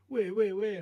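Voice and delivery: retold urgent asking. Mate urgently looks for the croc.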